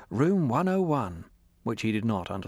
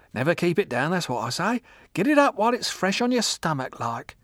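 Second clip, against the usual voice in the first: put-on drunk old woman; 7 semitones higher than usual. A narrator's reading.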